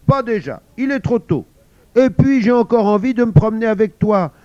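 put-on high, loud, childish whine; whiny refusal. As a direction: sulk like a child refusing school. Mother refuses, whining. (maman qui pleurniche, aiguë et forte)

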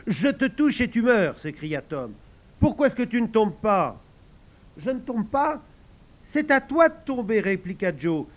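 high loud indignant arguing; heated squabble. Acted. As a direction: protest the rules hotly. Boys argue in mock fight.

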